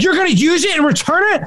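high, shocked question; mock her scandalised tone; Sophia, scandalised, quoted high; quoting Sophia. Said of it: "She's like".

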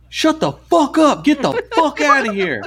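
high-pitched imitated yell, drawn out; slow, high mock holler. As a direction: act out a man yelling someone away. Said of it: "starts yelling at this dude".

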